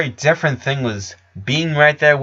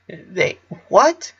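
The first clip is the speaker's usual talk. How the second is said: stunned; 8 semitones higher than usual. A narrator's reading. Clyde stunned.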